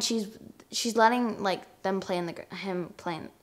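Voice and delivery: stumbling over words; stuttering. Real, not acted. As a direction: trip over the words, restarting. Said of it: "Sorry, I stutter a lot".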